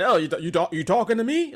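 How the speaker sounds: put-on light stammering New York Italian accent; a hint of a New York Italian accent; mock Italian-American accent. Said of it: "they're Italian".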